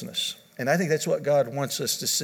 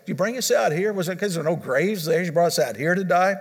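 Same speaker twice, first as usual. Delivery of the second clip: mock-whiny, higher sarcastic complaint; raised, sarcastic taunting of Moses; dripping sarcasm; 4 semitones higher than usual. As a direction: sneer it like a bitter Israelite. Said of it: "you could almost hear the, the sarcasm dripping".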